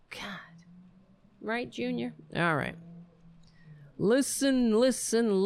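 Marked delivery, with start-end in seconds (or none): 4.0-5.4 town crier. Acted.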